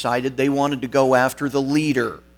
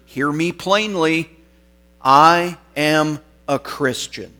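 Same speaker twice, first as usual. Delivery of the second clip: louder, higher, slowing to spaced words; bold declaration; 4 semitones higher, 6 dB louder than usual. Retold or imitated. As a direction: proclaim it for all to hear, retelling. Polycarp's open declaration to governor.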